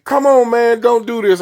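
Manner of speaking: imitating a man begging for mercy; pleading. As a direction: beg him to stop, voice up high. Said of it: "He pleading".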